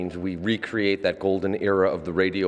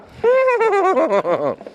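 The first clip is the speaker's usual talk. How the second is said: horse whinny; 8 dB louder than usual. Shown as a demonstration. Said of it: "a third will even make the whinnying noises".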